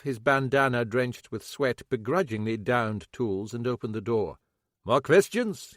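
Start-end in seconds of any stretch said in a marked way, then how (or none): 4.8-5.7 scowling. Acted. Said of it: "he said, scowling".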